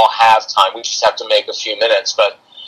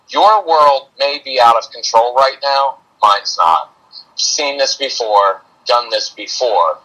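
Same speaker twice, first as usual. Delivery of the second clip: even matter-of-fact. Retold or imitated. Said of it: "a very even, matter-of-fact voice".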